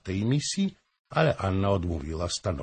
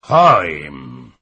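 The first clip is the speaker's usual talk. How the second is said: loud, drawn-out indignant call; loud cry of protest, falling in pitch; cried out; 5 semitones lower, 11 dB louder than usual. A narrator's reading. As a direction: call the name out sharply to stop him. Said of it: "krzyknęła".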